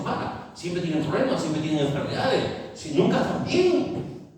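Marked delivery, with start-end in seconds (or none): 2.7-4.3 high, slow, breathy mocking whine. Preacher mocking people who are never well, in a high slow whine. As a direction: sneer at the chronic complainers.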